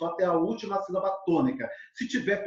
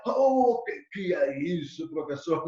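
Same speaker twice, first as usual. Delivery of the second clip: a touch of raised-voice student dismay; mock panicked student. Teacher voicing students baffled by poetry terms, mock dismay. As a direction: play a student lightly freaking out. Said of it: "muitos estejam se descabelando".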